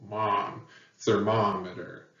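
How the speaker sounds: mom alone, then thermometer stressed on MOM; stress on second syllable. Shown as a demonstration. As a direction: isolate mom, then say ther-MOM-eter. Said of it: "heavy emphasis on the second syllable".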